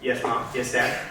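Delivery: low, soft, dutiful answers to parents; subdued son, two short replies; wary teen reply. Acted. Son answering his waiting parents.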